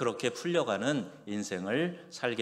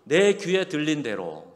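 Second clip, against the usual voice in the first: raised and louder, proclaiming; booming divine voice; 6 semitones higher, 6 dB louder than usual. Acted. Preacher booming God's words to Israel, loud. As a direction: declare it as God speaking.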